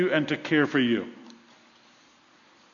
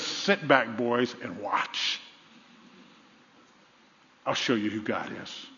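confident challenge; 6 semitones lower, 8 dB quieter than usual. Retold or imitated. Prophet's confident reply in the story.

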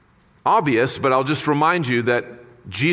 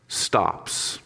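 hushed whisper; 5 semitones lower, 6 dB quieter than usual. Acted. Preacher telling how the storm stops, in a hushed whisper. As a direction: drop to a soft whisper on the last word. Storm stopping, dramatic hush.

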